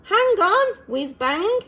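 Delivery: high, loud urgent call. A narrator's reading. Rocket calling to friend stuck in crater, loud urgent call. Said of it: "she called".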